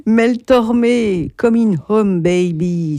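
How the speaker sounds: radio host showing off a mock English accent on the names. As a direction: play up an English accent on the singer's name, half joking. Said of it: "mon super accent".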